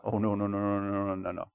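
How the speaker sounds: very soft, low run of repeated noes; dismissive denial. Retold or imitated. Preacher acting Peter rejecting Jesus's prediction, soft dismissive denial. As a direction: brush it off under your voice, trailing away.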